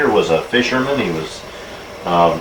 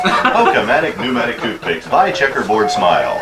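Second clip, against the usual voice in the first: mock ad read. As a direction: parody commercial announcer. Mock commercial tagline after laugh.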